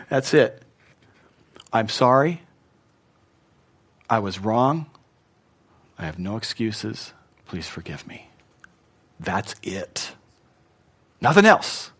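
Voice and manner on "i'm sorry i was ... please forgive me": soft, lowering plea for forgiveness; sincere apology. Shown as a demonstration. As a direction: apologize humbly, getting quieter with each phrase. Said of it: "if it's sincere".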